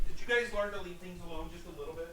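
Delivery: sweetly sarcastic reprimand to pets; sarcastic scolding. Real, not acted. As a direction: needle the cats with fake politeness. Scolding the cats mid-game.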